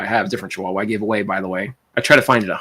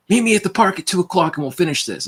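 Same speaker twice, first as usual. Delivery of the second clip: retold mock yell; 7 semitones higher than usual. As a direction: imitate someone calling across the street. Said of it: "he yells across the street".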